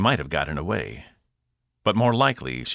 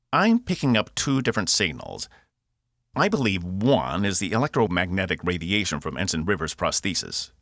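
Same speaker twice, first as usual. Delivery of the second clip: Cockney robot, reporting; 3 semitones higher than usual. Acted. Box reports two signals to Cass, Cockney robot. Box's held Cockney character voice.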